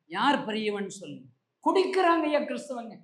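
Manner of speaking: usual speaking voice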